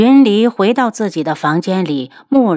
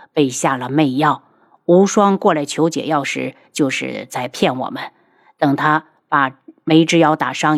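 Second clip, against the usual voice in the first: lightly voiced man, lower pitch; composed husband; 4 semitones lower than usual. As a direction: explain soberly in a lowered voice. Voices the husband explaining events. (低沉克制的丈夫口吻)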